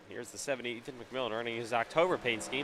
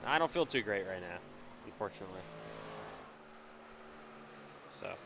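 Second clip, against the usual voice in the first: blocked nose, stuffy voice; stuffed up voice; 6 semitones lower, 5 dB quieter than usual. Real, not acted. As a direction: talk through a stuffed up nose. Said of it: "my voice sounds all stuffed up".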